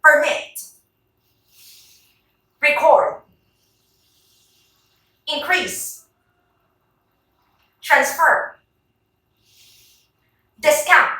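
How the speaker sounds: Permit, Record, Increase, Transfer, Discount, each with the second syllable stressed. Shown as a demonstration. Teacher leads rubber-band drill, stressing the second syllable in Permit to Discount. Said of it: "stress them on the correct syllable".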